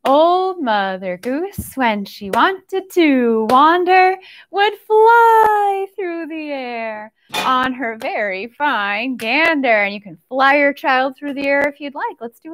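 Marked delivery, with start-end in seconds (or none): 0.1-9.8 slow sing-song rhyme for little ones; nursery rhyme recital. Acted. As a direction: lilt it slowly like story time.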